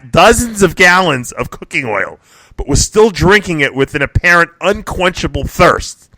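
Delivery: reading a news item aloud, punching key phrases; deliberate, emphatic news read; news story read-out. Real, not acted. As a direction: read it out like a newscast, stretching the juicy details.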